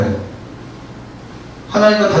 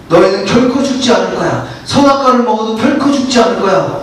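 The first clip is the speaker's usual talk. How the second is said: lying serpent. Acted. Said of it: "거짓말을 합니다".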